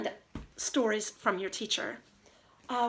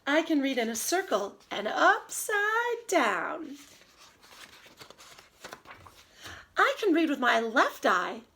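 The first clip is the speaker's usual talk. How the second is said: put-on lively storybook read-aloud for kids; reading to children. Teacher reading Dr. Seuss to her class, lively and sing-song. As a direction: read the rhymes with bounce and expression.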